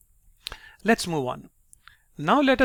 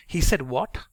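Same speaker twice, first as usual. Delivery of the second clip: "what" ends on a clear upward swoop; rising emphasis on "what"; slower than usual. Shown as a demonstration. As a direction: lift "what" into a question. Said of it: "my tone is going up on what".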